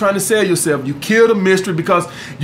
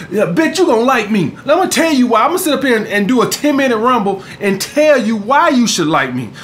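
mock overselling guy. Mocking guy overselling himself.

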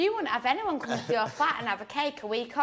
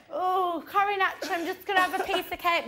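higher, quick mock-polite voice for Mario; mimicking Mario; 6 semitones higher than usual. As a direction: play him casually helping himself. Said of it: "Like, Mario".

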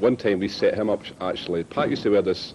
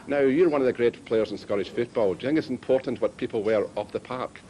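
higher-pitched mock Irish caller; put-on Irish accent; 4 semitones higher than usual. Prank caller questioning Pat on the radio, put-on Irish accent. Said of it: "he put on this Irish accent".

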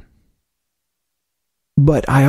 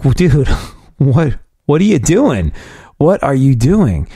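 laughing disbelief; 4 semitones higher, slower than usual. Retold or imitated. Colleague caught eating butter.

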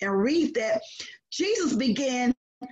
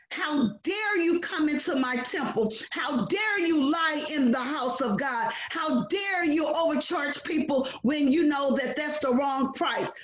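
mock angry rebuke; 2 semitones higher than usual. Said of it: "Jesus was so angry".

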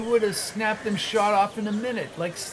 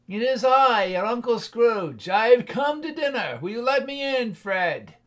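put-on higher, eager old man's voice; lightly voiced Scrooge; 4 semitones higher than usual. Scrooge asking his nephew to dine, higher eager voice. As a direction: ask shyly but hopefully to be let in.

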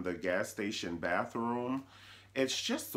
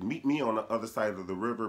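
secret message; faster than usual. Retold or imitated. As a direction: pass a hidden message casually. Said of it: "Harriet was talking to the slaves".

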